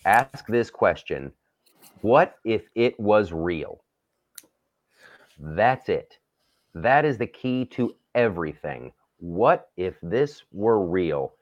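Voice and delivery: slow, deliberate emphasis; passionate. Real, not acted. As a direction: spell out each point slowly. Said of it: "I'm gonna get very passionate".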